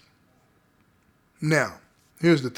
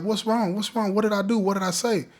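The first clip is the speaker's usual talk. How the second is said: higher-pitched, imitating her startled questions; retold shock; 5 semitones higher than usual. Girlfriend asking her man what went wrong, imitated shock. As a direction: voice her alarm in a raised pitch. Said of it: "She's all shocked".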